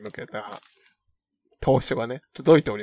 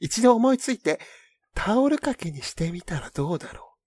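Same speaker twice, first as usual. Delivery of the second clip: letter reading. Acted. Reads a listener letter aloud.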